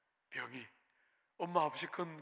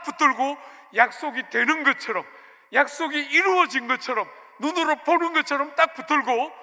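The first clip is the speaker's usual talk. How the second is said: loud, raised-pitch exhortation; preaching at full force; 6 semitones higher, 11 dB louder than usual. Real, not acted. Preacher urging congregation to hold on to the promise, forceful. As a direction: drive each phrase home hard.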